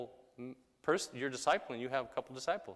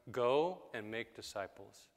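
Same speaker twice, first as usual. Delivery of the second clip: slow command with weight on "go"; emphatic command. Shown as a demonstration. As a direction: GO drawn out and stressed, then settle. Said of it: "and it's emphatic".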